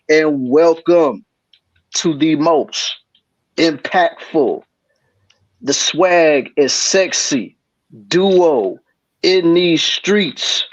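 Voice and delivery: slow hype-man introduction; announcer intro. Acted. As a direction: introduce the duo like a host. Podcast show intro.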